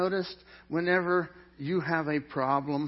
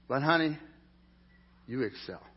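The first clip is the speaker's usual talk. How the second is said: tender to wife. Pretend. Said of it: "I get to tell my wife".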